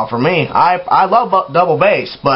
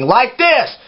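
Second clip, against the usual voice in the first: yelled talking; 8 semitones higher than usual. Shown as a demonstration. Showing how bands yell into the mic, yelled talking. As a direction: talk rising into a mock yell. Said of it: "yelling into the mic".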